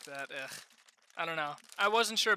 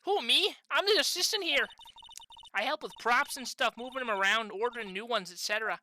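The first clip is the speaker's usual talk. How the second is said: lightly voiced Canadian assistant; attempted Canadian accent. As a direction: start bright-pitched, try a Canadian accent. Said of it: "tell it was, it was a Canadian accent".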